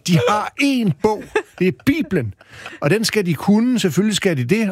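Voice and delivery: provoked, drive each point home; indignant. Real, not acted. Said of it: "det provokerer mig lidt".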